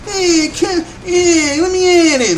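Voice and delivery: high, strained mock eagerness; put-on high-pitched hyped voice; retold fired-up goading. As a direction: act out itching to fight. Acting out being squared up, eager.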